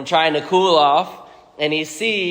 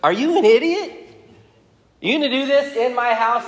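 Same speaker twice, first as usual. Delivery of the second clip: the king bursting in on Haman, hammed-up angry shout; furious king; 8 semitones higher, faster than usual. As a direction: yell at the fool who dares this in your house. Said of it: "He goes".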